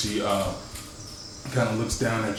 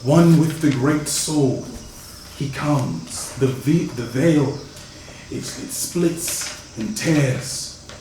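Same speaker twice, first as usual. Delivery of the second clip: dramatic prophetic cry; 3 semitones higher, 3 dB louder, much slower than usual. Acted. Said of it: "actually yelling".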